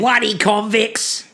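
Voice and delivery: slow exaggerated Aussie "Bloody convicts"; mock Aussie. Teasing her co-host by echoing the cranky Aussie voice. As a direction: lean into the Aussie twang, slowly. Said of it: "I'm sure they say it exactly like that too".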